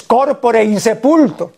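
corpore said CÓRpore, stress on the first o, slowly. Shown as a demonstration. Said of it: "Corpore con tilde en la primera O".

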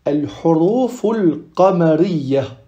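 slow qamariyya with the lam sounded; lam pronounced. Shown as a demonstration. Teacher naming lunar letters in Arabic, lam pronounced. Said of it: "les lettres lunaires se disent".

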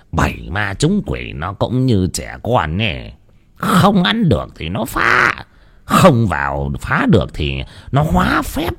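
giọng thầy cúng trầm, chậm, dặn dò; lightly voiced old sorcerer, low and slow. Thầy cúng dặn dò hai vợ chồng. (giọng thầy cúng trầm chậm)

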